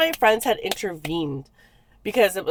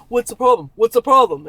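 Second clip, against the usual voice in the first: mock upset, growing louder; getting upset; 3 semitones higher, 6 dB louder than usual. Man reacting to her friend stepping in, getting upset. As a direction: push the repeat harder, imitating an agitated man. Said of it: "he was starting to get all upset".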